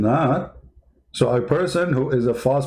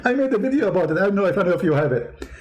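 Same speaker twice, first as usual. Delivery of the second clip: laughing; 3 semitones higher, faster than usual. Real, not acted. Laughing at his own story.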